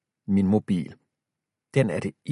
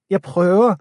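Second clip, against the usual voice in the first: high and loud, straining; strained cry; 10 semitones higher, 8 dB louder than usual. A narrator's reading. Boy straining to pull his friend up, shouting. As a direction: shout while pulling hard.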